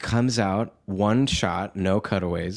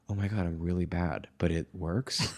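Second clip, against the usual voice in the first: hushed private thought; 3 semitones lower, 8 dB quieter than usual. Retold or imitated. Retells private thought onstage.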